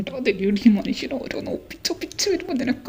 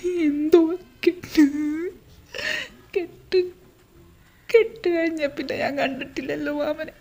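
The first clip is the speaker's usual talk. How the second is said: fake crying; 2 semitones higher than usual. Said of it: "നീ കരയല്ലേ".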